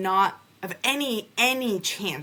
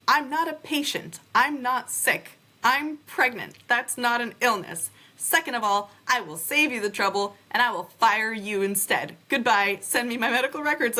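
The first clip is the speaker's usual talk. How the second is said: higher, firm and indignant; retold indignant telling-off; 5 semitones higher than usual. Telling off the threatening nurse on the phone, high and indignant. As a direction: fire the nurse before she drops you.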